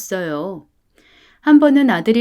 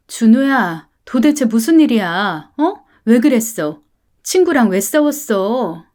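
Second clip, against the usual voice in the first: a mother demanding answers, voice raised; scolding mother; 3 dB louder than usual. Acted. Mother scolding her son in the counseling room, raised voice. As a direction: press the son hard for the truth.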